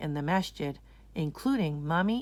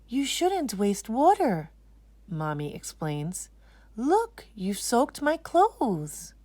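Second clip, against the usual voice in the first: higher, slower mock dismay; gentle mother scolding; 5 semitones higher, slower than usual. Mommy to Anisa after splashing, mild scold. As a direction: tut at a splashy child.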